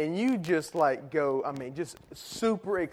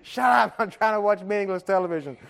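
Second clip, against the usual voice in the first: mock irritated yell; 3 semitones higher than usual. Dad trying to watch TV over screaming kids, mock irritated. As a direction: play at snapping over the noise.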